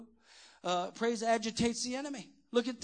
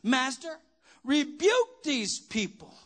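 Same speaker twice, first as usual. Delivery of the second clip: higher, slow, drawn-out rebuke; miserable complainers imitated; 4 semitones higher, 4 dB louder, slower than usual. Preacher mimicking miserable Pharisees complaining to Jesus, mock rebuke. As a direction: stretch out the complaint in a raised pitch. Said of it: "the miserable people that came to church".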